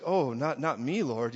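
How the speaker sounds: lightly acted modest protest; humble. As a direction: demur humbly. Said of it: "she was all humble about it".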